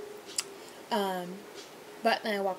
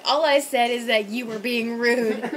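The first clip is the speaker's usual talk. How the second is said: exasperated; 6 dB louder, slower than usual. Retold or imitated. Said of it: "I was like".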